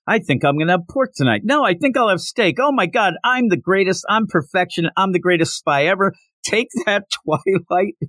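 hammed-up spy gloating; a lightly voiced cocky spy crowing over his win; gloating celebration.

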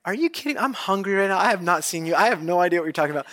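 high-pitched disbelief, settling down; hungry and baffled, can't believe the ask; mock incredulous. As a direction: act out exasperated disbelief at an absurd request. Acted inner reply to a stranger's request.

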